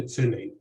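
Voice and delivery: "filmain" with the stress on "fil"; front-stressed "filmain"; first-syllable stress. Shown as a demonstration. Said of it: "that has stress on the first syllable".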